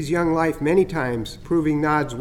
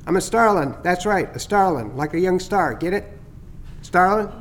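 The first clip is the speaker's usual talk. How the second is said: teasing starling; 2 semitones higher than usual. Acted. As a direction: gloat a little over the fake heron scare. Chatter introduces himself.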